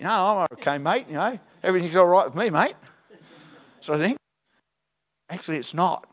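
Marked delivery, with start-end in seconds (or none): 0.0-2.8 a light mock Australian accent, faster; casual Aussie brush-off, lightly put on. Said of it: "He must have been an Aussie".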